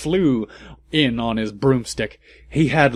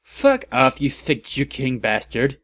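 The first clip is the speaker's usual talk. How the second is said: mock angry shout. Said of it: "I shouted angrily".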